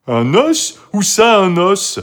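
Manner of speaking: high, loud excited dog; thrilled. A narrator's reading. Toutou hears about a dinosaur bone, thrilled. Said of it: "s'exclama Toutou tout exalté".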